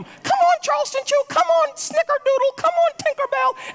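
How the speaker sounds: very high, loud dog-calling coo; high-pitched pet voice. Retold or imitated. Pastor copying his wife calling the dog in, very high and loud. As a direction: mimic the wife's squeaky call. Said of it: "here I am".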